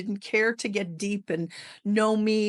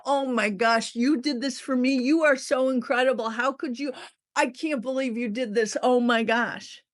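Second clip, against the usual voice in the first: higher, over-the-top thrilled gushing; mock gushing gratitude; 5 semitones higher than usual. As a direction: ham up fake delight over a gift. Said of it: "They wanted you to go".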